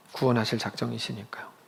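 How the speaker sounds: soft whispered close. Real, not acted. Preacher confiding God's plan to listeners, whispered. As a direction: drop to a hushed whisper. Sermon line trailing to hush.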